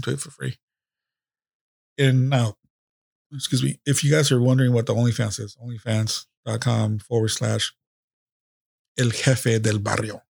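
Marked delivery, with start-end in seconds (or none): 5.6-10.2 slow, careful spelling-out of the address; dictating a URL deliberately; slow dictation. Shown as a demonstration. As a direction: read the web address out slowly. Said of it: "I ain't gonna tell you how to spell it".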